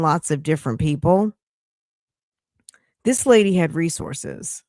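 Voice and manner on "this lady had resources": talking through hiccups; hiccuping between words. Real, not acted. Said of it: "Now I've got the hiccups".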